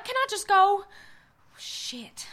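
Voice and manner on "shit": breathy whispered shit under the breath; whispered curse. Acted. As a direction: barely voice it in horror. Horrified witness breathes a curse.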